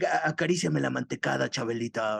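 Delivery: lightly imitated tempter, dropping low at the end; low, teasing imitation of a man tempting her; tempting man's voice. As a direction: coax her like a sketch-comedy seducer. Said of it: "She made that voice".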